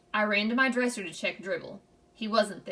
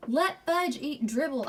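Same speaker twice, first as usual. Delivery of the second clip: higher, slow drawn-out scream; 6 semitones higher, slower than usual. A narrator's reading. Boy screams at his mother about the turtle, slow scream. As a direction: accuse in disbelief. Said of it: "I screamed".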